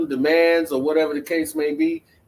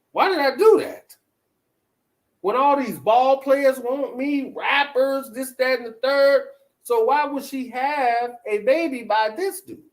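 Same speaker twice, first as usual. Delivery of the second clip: high-pitched mock disbelief, voicing the wife; high, exasperated imagined inner rant; incredulous wife; 8 semitones higher than usual. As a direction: question it like a wife baffled by her own choice. Voicing the wife's disbelieving regret.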